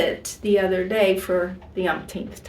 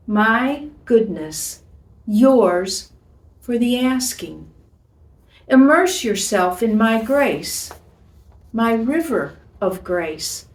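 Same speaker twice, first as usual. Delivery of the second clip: tender letter reading. Acted. Reads God's love letter aloud.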